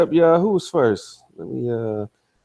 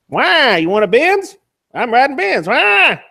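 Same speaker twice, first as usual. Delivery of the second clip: incredulous mocking; 9 semitones higher, 4 dB louder than usual. Real, not acted. Mocking rival's complaints.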